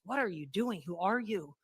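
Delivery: amazed coworkers. Retold or imitated. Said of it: "people were like".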